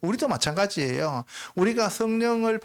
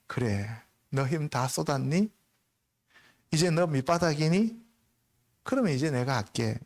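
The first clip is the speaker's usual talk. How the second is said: gentle voice of the Lord; 3 semitones lower than usual. Acted. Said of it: "뭐라 그런지 알아요?".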